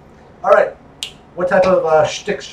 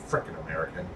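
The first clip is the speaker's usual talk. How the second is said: mock dismissive foreigner; 11 semitones lower, 15 dB quieter, faster than usual. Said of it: "and they're like".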